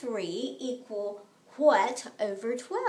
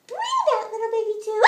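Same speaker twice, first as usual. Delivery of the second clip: playful call; 6 semitones higher, 5 dB louder, faster than usual. Acted. Playful chant to the class.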